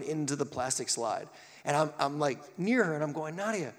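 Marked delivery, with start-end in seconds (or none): 3.4-3.7 put-on higher, coaxing a stuck child gently; coaxing parent. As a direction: urge her to just push off.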